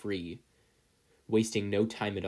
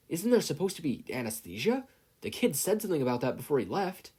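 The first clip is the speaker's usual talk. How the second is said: pained thought; 7 semitones higher than usual. A narrator's reading. Yagi in pain, voiced.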